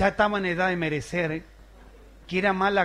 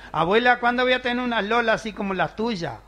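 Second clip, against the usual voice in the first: a hint of a young girl, pitched higher; little girl asking; 6 semitones higher, 4 dB louder than usual. Sister asking grandma, lightly voiced as a girl. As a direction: ask grandma innocently, a bit higher.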